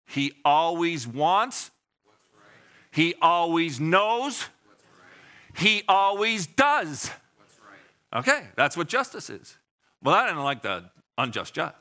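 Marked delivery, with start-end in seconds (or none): 0.0-8.2 slow leader calls, congregation answers; call and response. Shown as a demonstration. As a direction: stretch each line, leave room for the answer. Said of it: "Say this with me".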